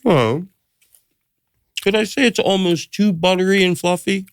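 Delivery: high, prissy judge voice; mock a fussy food critic; snooty food judge. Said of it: "they'll go like".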